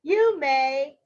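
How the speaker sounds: a hint of a polite child, firmly projected; Little Red Riding Hood. Girl gives the wolf permission, lightly voiced child. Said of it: "said Little Red Riding Hood".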